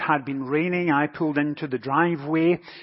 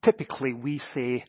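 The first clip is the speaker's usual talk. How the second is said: put-on southern accent; 3 semitones lower, 3 dB quieter than usual. Little girl correcting the pastor, lightly mimicked Southern accent. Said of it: "in a very strong southern accent".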